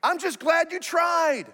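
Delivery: put-on high gentle praise for a kid; encouraging dad. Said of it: "A good dad is like".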